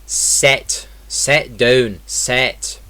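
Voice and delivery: "set" for sit, vowel close to eh; Scottish short I. Shown as a demonstration. Teacher showing the I vowel, Scottish "set" for sit. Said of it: "In Scottish English, this would be".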